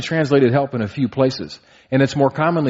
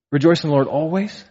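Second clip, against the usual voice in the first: Rejoice in the Lord always? rising high and doubtful; incredulous question; 3 semitones higher than usual. Shown as a demonstration. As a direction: ask it as if it can't be true.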